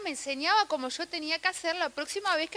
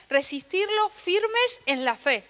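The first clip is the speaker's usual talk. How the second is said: slow emphatic preaching; 5 semitones higher, 4 dB louder, slower than usual. Real, not acted. Preacher stresses scripture.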